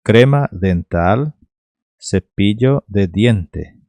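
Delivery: "Crema dental, cepillo de diente" slowly, word by word; pronunciation demo. Shown as a demonstration. Teacher repeating for learners, slow Spanish pronunciation. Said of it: "Só vou pronunciar de novo".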